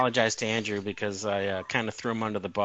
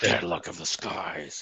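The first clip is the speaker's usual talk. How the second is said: slow, drawn-out film quote; Empire of the Sun impression; slower than usual. Quoting the kid from the Spielberg movie, slow impression. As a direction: stretch it out like a child actor's movie line. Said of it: "his voice in Empire of the Sun".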